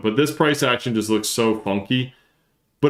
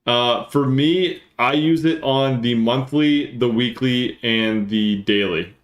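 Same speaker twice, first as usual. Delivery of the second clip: slowing down; slower than usual. Real, not acted. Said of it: "I'll slow down".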